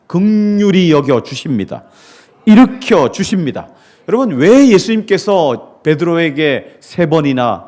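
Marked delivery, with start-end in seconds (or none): 0.1-3.7 rising louder through the promises; building proclamation. Real, not acted. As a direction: build it up, louder each line. Preacher building to climax. (점점 크게 외치듯 선포)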